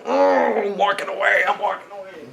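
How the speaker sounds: high exasperated groan, fading off as if leaving; mock exasperation. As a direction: pretend to give up and walk off, voice trailing away. Mock walking off in frustration.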